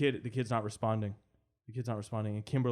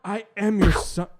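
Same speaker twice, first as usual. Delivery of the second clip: put-on pleading kid; 7 semitones higher, 9 dB louder than usual. Kid slow plea.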